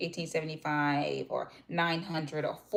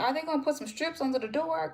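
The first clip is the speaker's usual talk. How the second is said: pointed question; 9 semitones higher than usual. Retold or imitated. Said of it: "I said".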